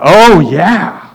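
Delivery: drawn-out, assured churchgoer answer; lightly mock an eager claim of faith; imitating adamant believer. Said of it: "gave me that third type of answer".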